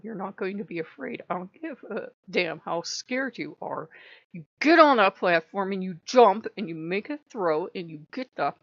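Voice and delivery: mildly stern imitation of a commanding god; lightly snarled drill orders, emphatic word by word; snapping and snarling. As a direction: order a frightened follower onward, firmly. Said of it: "He can snap and snarl".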